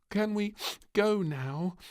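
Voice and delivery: put-on high, slow pleading child voice; a small girl who can't wait any longer; impatient little princess. A narrator's reading. Princess begs her parents over breakfast, high and impatient.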